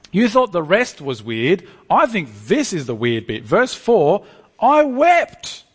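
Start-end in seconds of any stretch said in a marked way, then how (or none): 4.6-5.6 higher, louder hammed-up wail; mock blubbering. Preacher voicing John's weeping, mock wail. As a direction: play John falling apart, half joking. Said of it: "John just starts blubbering".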